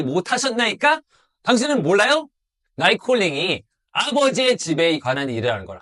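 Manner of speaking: lightly voiced boy Jesus, rising to an indignant question; a hint of a protesting son; young Jesus answering. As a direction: answer his parents with earnest surprise. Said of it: "예수님께서 하시는".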